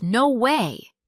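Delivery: amazed, swooping reaction; shocked surprise. Shown as a demonstration. Reply to friend who met a singer, surprised. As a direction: react as if you can't believe it. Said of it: "you're shocked or surprised".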